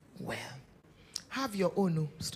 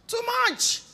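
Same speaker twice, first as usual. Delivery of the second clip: "Too much" high and loud; stress on too much; 12 semitones higher, 7 dB louder than usual. Real, not acted. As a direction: hit "Too much" hard. Preacher emphasis.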